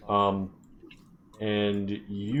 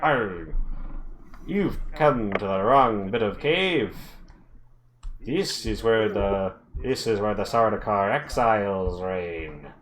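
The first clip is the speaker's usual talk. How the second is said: gruff dwarf. Acted. GM voices threatening dwarf.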